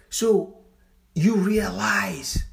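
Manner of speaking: slow breathy whisper, leaning in close; hushed whisper. Real, not acted. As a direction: let it drop to a secret whisper. Hushed aside to the audience.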